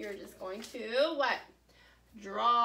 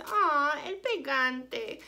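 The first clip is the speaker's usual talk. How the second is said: pitying; 3 semitones higher, 3 dB louder, much slower than usual. Shown as a demonstration. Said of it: "I say it like I feel bad for it".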